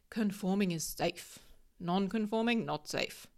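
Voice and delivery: lightly voiced caveman, blunt and simple; a playful hint of a grunting caveman. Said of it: "I'm using my caveman voice".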